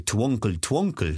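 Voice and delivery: "Twinkle Twinkle" as a French "twonkle", slowly; French accent. Retold or imitated. Parent singing at bedtime, mock French accent. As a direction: put on a French accent, drawn out. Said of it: "doing it in a French accent".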